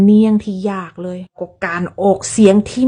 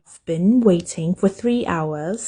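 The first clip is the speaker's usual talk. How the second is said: "I've been waiting for three hours" rushed together; fast native speech; 3 semitones lower, 4 dB quieter, much slower than usual. Shown as a demonstration. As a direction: run the words like a native. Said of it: "นักเรียนหนูฟังยากเลย". (พูดเร็วแบบเจ้าของภาษา)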